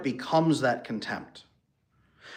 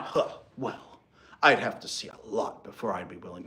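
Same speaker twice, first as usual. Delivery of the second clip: a dismissive, breathy scoff, then words trailing lower; contemptuous; 3 semitones lower than usual. Pretend. Acting out a partner answering with contempt, dismissive scoff. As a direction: sound unimpressed and withholding, a hint of a sneer. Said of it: "No, that's contempt".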